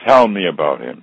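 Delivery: a firm, low-pitched order that leaves no room to refuse; serious command. Retold or imitated. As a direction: point the finger and demand it, stern teacher. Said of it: "pointed her finger at me with a very serious look".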